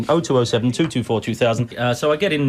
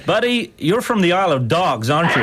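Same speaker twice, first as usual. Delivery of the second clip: mock American cop; 3 semitones higher than usual. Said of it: "I know what he said".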